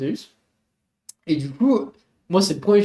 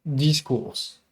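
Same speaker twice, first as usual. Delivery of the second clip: voix grave. Shown as a demonstration. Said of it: "avec une voix grave". (voix grave de jingle)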